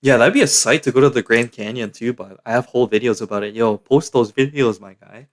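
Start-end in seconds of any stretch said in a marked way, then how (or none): 3.5-5.3 real slip of the voice mid-phrase; slow urging, voice giving way; voice slipping. Real, not acted. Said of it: "Oh, my voice".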